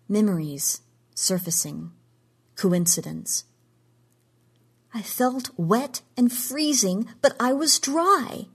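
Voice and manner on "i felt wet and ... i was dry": high, slow, urgent outcry; crying out. A narrator's reading. Jean crying out to Sumner about Trevor's pain. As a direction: cry it out, pleading to be believed. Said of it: "she cried".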